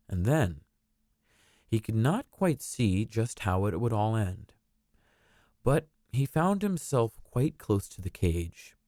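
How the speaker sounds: gentle storybook reading voice; storybook narrator. A narrator's reading. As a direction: read it like a bedtime story. Reads a storybook aloud.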